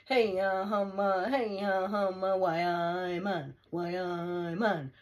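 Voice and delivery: loud, drawn-out Geordie chant; Geordie accent. Shown as a demonstration. Proud Geordie showing off the dialect, loud Geordie chant.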